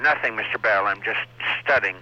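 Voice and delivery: the principal's lisp put on as a cheeky answer; imitating principal's voice. Student answers principal Bell, mocking him in his own lisping voice. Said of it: "answer him in his voice".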